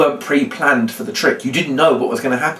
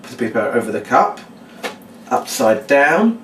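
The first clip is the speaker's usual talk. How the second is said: thinking aloud, stretching the last word; absent-minded recital of steps; recapping out loud. Shown as a demonstration. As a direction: go over the steps to yourself. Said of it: "you recap out loud".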